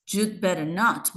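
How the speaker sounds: "not" stressed with a rising tune; lifted, emphasised final "not". Shown as a demonstration. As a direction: land the main beat on "not". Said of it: "tiene la sílaba tónica".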